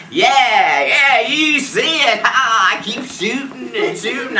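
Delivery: put-on high, loud, drawn-out drunken shouting; drunken whooping. Drunk teens shooting on the roof, excited shouting. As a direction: whoop it up with a laugh. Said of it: "like, drunk, like".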